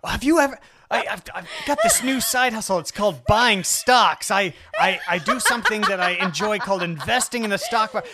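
mocking impression. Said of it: "This is the most ridiculous story I've ever heard".

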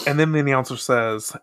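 slipping into a Southern accent; Southern accent on the narration. Real, not acted. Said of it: "I sounded so Southern".

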